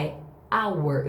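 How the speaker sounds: hour starting straight on the vowel, no H; silent h. Shown as a demonstration. Teacher showing students the silent H in hour. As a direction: open hour on the vowel, drop the H. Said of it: "mas eu não escuto o H".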